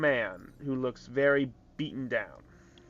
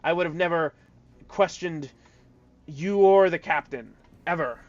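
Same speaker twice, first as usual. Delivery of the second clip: a raised, eager voice protesting loyalty to the quartermaster; pleading Barb; 4 semitones higher, 5 dB louder than usual. Acted. Barb protests his loyalty to the quartermaster, in a lightly voiced pleading tone. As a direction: sell the innocence a bit higher and louder. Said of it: "and then Barb goes".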